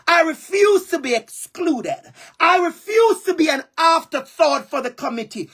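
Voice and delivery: near tears, pitch up as she insists; tearful, rising defiance; voice breaking. Real, not acted. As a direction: fight through real tears while refusing. Emotional refusal speech, voice breaking.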